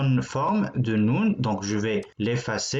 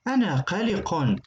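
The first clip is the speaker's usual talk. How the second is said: mock worried; 5 semitones higher, faster than usual. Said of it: "Celui-là est inquiet".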